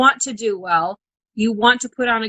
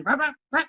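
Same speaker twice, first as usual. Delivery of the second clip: higher-pitched vocal throttle blips; imitated engine revs; 5 semitones higher, 4 dB quieter, faster than usual. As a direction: mimic revving a truck engine.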